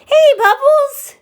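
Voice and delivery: high, slow, laughing hello; excited greeting. Real, not acted. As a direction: sing out the name with a laugh. Cheerful greeting to a chat viewer.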